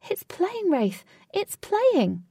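high, eager calling out; excited call. Acted. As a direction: call out eagerly that it's only playing. Katie calls out to Wraith.

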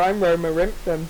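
lightly imitated growly dog voice; half-hearted cartoon dog growl. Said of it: "the dog voice".

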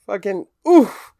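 high, loud, anguished groan of disbelief; exasperated outcry. Real, not acted. Reacting to a friend's joke about the coworker, loud pained outcry. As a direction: cry out like it physically hurts.

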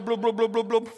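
rapid bubbling blubs of sinking; glug-glug imitation. Preacher mimics Peter sinking under the waves, bubbling sound imitation. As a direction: imitate someone going under, blub after blub.

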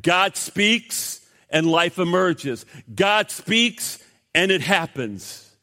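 God speaks and it happens, each word slow and weighted; slow emphatic. Shown as a demonstration. Pastor drawing the lesson for the congregation, slow and emphatic. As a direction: lay each word down slowly. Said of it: "you see a clear pattern".

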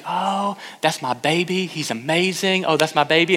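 lightly acted cooing sweet mother; sweet doting mom. Mom on the sidelines about her son, acted sweetly. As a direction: gush like an adoring soccer mom. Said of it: "she's so sweet".

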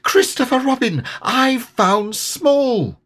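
very high, slow triumphant call; high excited calling out; excited cry. A narrator's reading. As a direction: call out proudly across the forest. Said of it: "cried Piglet".

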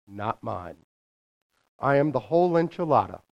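lightly voiced God reading a letter aloud; a hint of God as exasperated parent, firm and deliberate; God addressing the children, lightly played. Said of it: "Let me get into my God voice".

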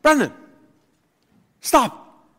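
high, loud mom warning; stern mother's call. Retold or imitated. Mother warning her son Brendan, high stern call. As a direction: call him out like a fed-up mother. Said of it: "So it would go like".

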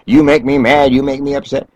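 pointed, blaming "You" up front; accusatory you statement. Shown as a demonstration. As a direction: lean hard on each "you" as a charge. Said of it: "we're usually better at you statements".

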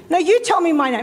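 retold retort with a touch of attitude; insist, turning the demand back on the caller. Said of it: "'cause now I'm getting attitude".

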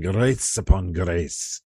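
put-on slow, light Scottish accent on grace upon grace. Preacher imagines a Scotsman reading the verse, light Scottish accent. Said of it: "Scottishman saying".

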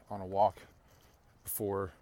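talking outdoors in the wind; wind in the face. Real, not acted. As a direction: wind gusting over the mic. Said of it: "it gets a little, uh, windy".

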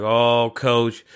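mock a whining YouTube commenter; mocking complainer voice. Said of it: "That's what I hear when people start complaining".

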